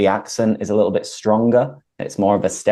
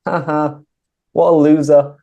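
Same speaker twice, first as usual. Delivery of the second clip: jeering, higher and louder taunt; mocking laughter; 6 semitones higher, 5 dB louder than usual. Shown as a demonstration. Teacher demonstrates laughing at someone, mocking. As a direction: laugh at them, disrespectfully. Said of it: "Laughing at someone is like".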